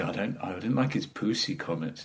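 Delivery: lightly imitated Scottish girlfriend; a hint of Scottish, vowel fronted on pussy; mild mock Scottish complaint; Scottish accent. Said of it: "with her accent kept saying".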